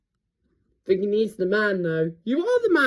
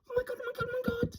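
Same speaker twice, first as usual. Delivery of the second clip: 1 hushed awe; 10 semitones higher, 8 dB quieter, much faster than usual. Real, not acted. Awed watching birds arrive.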